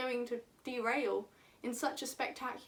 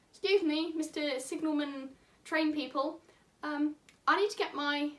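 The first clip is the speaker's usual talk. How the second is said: lightly put-on Australian farmer voice. Farmer asking signalmen for help, light Australian accent. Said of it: "I don't know why he has this voice".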